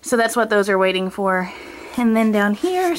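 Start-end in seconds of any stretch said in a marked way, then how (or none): 1.9-3.0 out of breath. Real, not acted. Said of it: "sorry, I'm out of breath".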